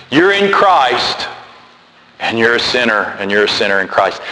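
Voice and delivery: hammed-up preacher heaping guilt; a preacher pressing guilt on his flock, mildly mocking; guilt-trip preacher. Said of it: "preachers try to lay that guilt".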